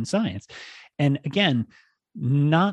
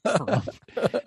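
laughing harumph; 8 semitones higher, 4 dB quieter than usual. Pretend. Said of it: "let's just continue harumphing".

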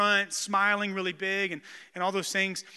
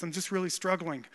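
softer, lightly imitated character voice; Kip; 6 dB quieter than usual. Youth leader confessing to his pastor, lightly done Kip voice. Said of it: "like Kip".

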